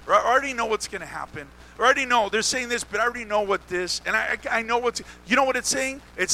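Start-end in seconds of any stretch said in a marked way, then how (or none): 0.1-1.5 quick, softer dismissive quote; brushing it off in a hurry; know-it-all attitude. Acted. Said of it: "when you have an attitude like". 1.8-4.0 rattled off, a touch dismissive; hurried, lightly mocking quote; know-it-all attitude. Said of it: "when you have an attitude like".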